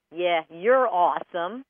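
mock the person with "Yeah"; sarcastic. Shown as a demonstration. A host showing how "you're awesome" can sound sarcastic. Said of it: "It means something totally different".

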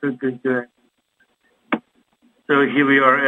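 overmodulated, distorted mic; clipped, overdriven phone audio; clipping distorted mic. Real, not acted. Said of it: "You sound a bit overmodulated".

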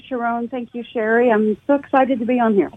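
usual speaking voice

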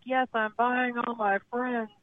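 slow, drawn-out tipsy bragging; tipsy, stretched-out boasting; wasted big spender. Retold or imitated. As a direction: play a generous drunk at the bar. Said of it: "I'm totally wasted".

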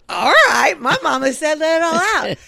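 loud, high playful outburst; letting loose. Retold or imitated. Mock cue to let loose.

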